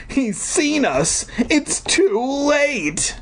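high, very slow despairing voice; hopeless dread. Acted. Deirdre telling Wendy they are caught, slow and high. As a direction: give up all hope.

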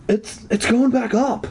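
high stammering panic; panicked cry. A narrator's reading. Zeke watching the platform rise, panicked cry. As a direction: stutter it out in alarm. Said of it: "Zeke cried".

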